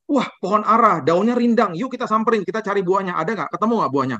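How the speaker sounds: excited invitation to find fruit; eager exclamation. Acted.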